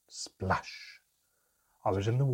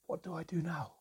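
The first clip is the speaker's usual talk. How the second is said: whispered; 7 semitones higher, 6 dB quieter than usual. A narrator's reading. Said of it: "I whispered into my hands".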